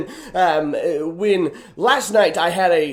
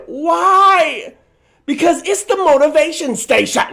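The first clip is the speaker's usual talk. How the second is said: high, punchy announcer hype; hyped catchphrase; 8 semitones higher than usual. Real, not acted. Host announcing his motivation catchphrase, high and hyped. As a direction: sell the slogan like a radio promo.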